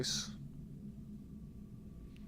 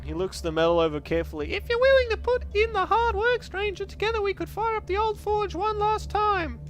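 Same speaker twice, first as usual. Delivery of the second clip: put-on old monk. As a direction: read the weary old monk. Voices monk again.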